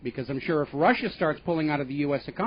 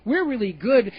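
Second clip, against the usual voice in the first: higher, sing-song mock of a smug banker; a hammed-up smug banker; 5 semitones higher than usual. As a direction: parody the banker's self-praise. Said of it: "who's basically going on and saying".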